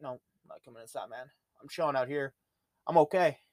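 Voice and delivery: lightly voiced stubborn husky; dog refusing to come inside, softly voiced; voicing the dog.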